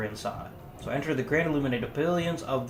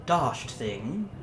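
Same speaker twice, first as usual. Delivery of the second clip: upper-class English curse. Acted. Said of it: "cursed in upper-class English tones".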